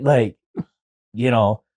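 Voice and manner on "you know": normal talking voice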